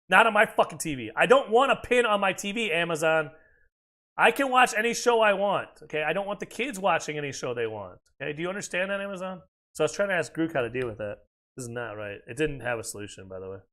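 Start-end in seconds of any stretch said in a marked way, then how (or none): 0.1-9.4 real irritation, raised voice; annoyed rant. Real, not acted. Ranting at Amazon about the PIN.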